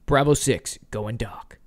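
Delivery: lightly put-on British soldier accent; bad British accent. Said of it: "That's my terrible British accent".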